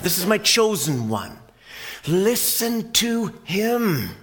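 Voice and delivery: high, loud proclaiming voice; voice from the cloud. Acted. The voice from the cloud proclaiming the beloved son, loud and high. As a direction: announce it from the heavens. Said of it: "It said".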